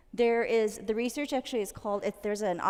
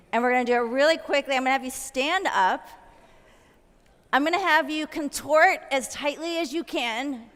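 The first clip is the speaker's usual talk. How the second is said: energetic coaching; 4 semitones higher, 5 dB louder than usual. Real, not acted. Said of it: "coach leading a group exercise".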